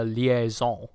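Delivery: light mock French accent on "liaison". Film villain introducing his media aide, French-accented "liaison". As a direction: say "liaison" slowly with a French ending. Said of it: "he switches to a French accent".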